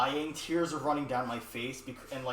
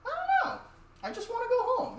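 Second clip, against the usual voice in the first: put-on much higher, whiny little kid voice; 4 dB louder than usual. A much higher whine as a hurt kid to mom. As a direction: play the hurt kid pleading to go home. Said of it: "And I'm like".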